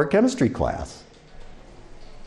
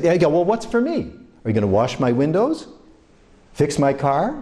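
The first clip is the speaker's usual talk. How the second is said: mock retort; 5 semitones higher than usual. Retort to beggars.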